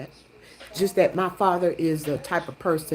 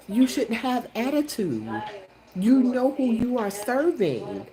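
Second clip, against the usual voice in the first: imagined scolding; 4 semitones higher than usual. Retold or imitated. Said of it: "that's what I wanted to say".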